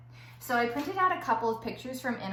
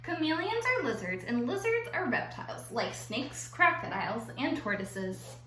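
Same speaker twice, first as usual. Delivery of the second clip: put-on lively non-fiction reading for kids; reading to children. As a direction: read the facts like a picture book for the class. Starts reading second book.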